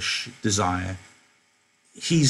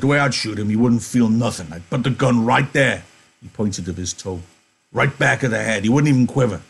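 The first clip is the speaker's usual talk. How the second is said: loud disgusted Carlson; 4 dB louder than usual. Acted. Carlson ordering Candy to remove the stinking dog, loud. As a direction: shove the complaint at him.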